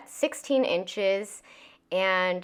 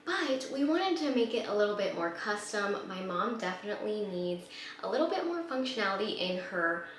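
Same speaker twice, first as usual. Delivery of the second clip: hushed whisper to not wake anyone; library whisper; 6 dB quieter than usual. Real, not acted. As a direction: keep it to a soft whisper. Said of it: "Sorry, I'm whispering because people are still sleeping".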